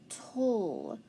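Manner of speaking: "tull" as a separate drawn-out syllable; syllable sound demo. Shown as a demonstration. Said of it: "that tull sound at the end".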